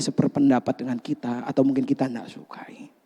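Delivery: whisper. Real, not acted. Preacher dropping to a whisper on people we dislike. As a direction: let the last words fade to a whisper.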